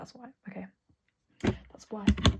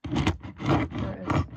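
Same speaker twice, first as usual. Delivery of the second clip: excited reveal; 9 dB louder, much slower than usual. Real, not acted. Revealing desk trolley.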